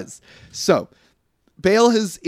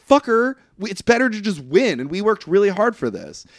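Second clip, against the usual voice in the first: mildly indignant, voice raised in pitch; mild retold anger; 4 semitones higher than usual. Damon objecting to the photo finish, mildly pissed. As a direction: protest with a touch of anger. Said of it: "So Damon is pissed".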